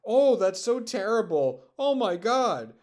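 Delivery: high, loud fake astonishment; sneering at the outrage; sarcastic mock shock. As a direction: gasp it out in mock horror.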